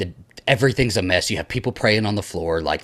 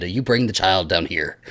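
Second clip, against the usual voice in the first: commanding, laughing; 3 semitones lower than usual. Retold or imitated. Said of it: "Ellen Burstyn would have said".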